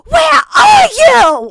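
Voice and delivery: put-on loud, slow shouted British accent. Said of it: "Oh, he's British?".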